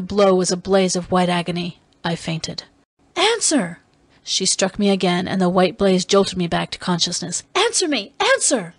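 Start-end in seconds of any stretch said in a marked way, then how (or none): 3.2-3.8 high-pitched demanding cry; impassioned cry. Acted. Dalisa striking her prisoner for an answer, high demanding cry. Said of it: "Each cry brought a blow". 7.5-8.7 high-pitched, repeated demanding cries; impassioned cry. Acted. Dalisa striking her prisoner for an answer, high demanding cries. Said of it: "Each cry brought a blow".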